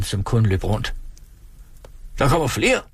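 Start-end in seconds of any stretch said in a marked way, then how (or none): 2.2-2.8 mild mock shout. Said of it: "råbte Brasen".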